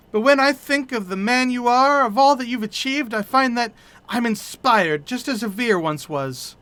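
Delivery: lightly voiced, hesitant, stumbling young adventurer; shy widow-to-be speaking of her dead fiancé; a hint of a nervous, mournful young woman; timid grieving young woman.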